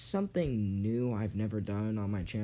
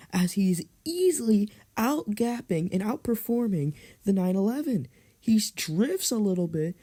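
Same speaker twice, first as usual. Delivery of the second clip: higher, animated play-by-play; excited race commentary; 10 semitones higher, 3 dB louder than usual. Acted. Announcer hyping the Corvette's run, excited commentary. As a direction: call the underdog's run with rising energy.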